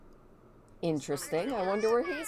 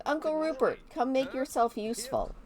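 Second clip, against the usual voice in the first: voicing Griselda; 7 semitones higher than usual. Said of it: "Be like".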